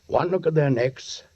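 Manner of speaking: low brooding narration over music; grim narration. A narrator's reading. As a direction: tell it heavily, as a haunted memory. Sergeant narrates grim scene.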